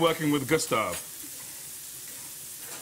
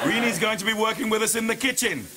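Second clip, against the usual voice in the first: raised announcement to the whole kitchen; calling out; 5 semitones higher than usual. Real, not acted. Chef introduces the new girl to staff, calling out. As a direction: call it out across the kitchen.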